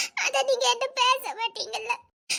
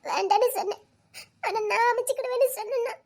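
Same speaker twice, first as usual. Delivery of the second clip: tearful pleading. Acted. Heartbroken woman pleading with lover.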